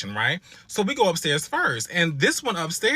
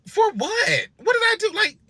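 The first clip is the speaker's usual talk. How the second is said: high, loud wailing protest; exasperated outcry; 5 dB louder than usual. Real, not acted. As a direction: cry out what did I do, hurt. Exasperated outcry at unfair treatment.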